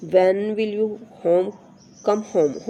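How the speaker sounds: "home?" said slowly, dropping at the end; falling question tone. Shown as a demonstration. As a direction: let "home?" sink gently like a wh-question. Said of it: "होम हमारा बिल्कुल slow बोला जाएगा". ("home?" को धीरे, गिरती आवाज़ में)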